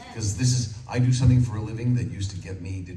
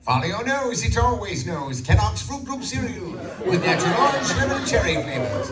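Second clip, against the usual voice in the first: much higher, louder, bright cartoon pitch; Toucan Sam; 12 semitones higher, 5 dB louder than usual. Shown as a demonstration. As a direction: sell it like a cereal mascot. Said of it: "that's a voice I could sustain".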